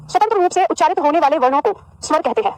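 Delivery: measured dictating voice; dictation. Shown as a demonstration. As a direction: spell it out so they can write it down. Dictating a definition to class.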